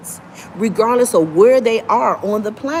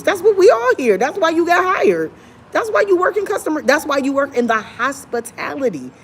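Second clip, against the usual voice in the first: emphatic; 6 semitones higher than usual. Real, not acted. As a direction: drive the point home hard. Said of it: "emphatic rant".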